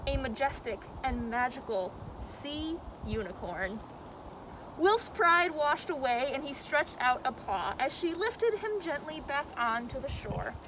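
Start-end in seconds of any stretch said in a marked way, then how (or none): none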